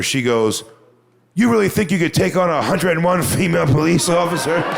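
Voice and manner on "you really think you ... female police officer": earnest. Retold or imitated. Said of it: "she meant this".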